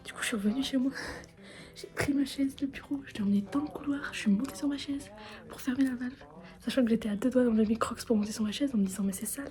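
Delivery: hushed whisper late at night. Real, not acted. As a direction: whisper so as not to wake anyone.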